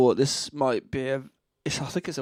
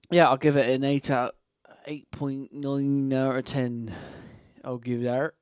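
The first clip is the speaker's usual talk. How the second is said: put-on Gloucestershire accent. Rating a track for viewers, in a mild mock Gloucestershire accent. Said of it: "I'm putting on a Gloucestershire accent".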